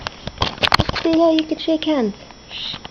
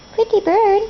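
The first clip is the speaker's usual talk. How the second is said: teaching a parrot; 6 semitones higher than usual. Shown as a demonstration. Modelling words for parrot.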